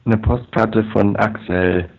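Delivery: slow robotic line. Real, not acted. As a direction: repeat it slowly through the glitchy line. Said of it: "sag selber nochmal".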